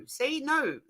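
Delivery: No said through a laugh, no R; giggling demo of no. Shown as a demonstration. Laughing as she proves her no to the chat. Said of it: "I don't say it with an R".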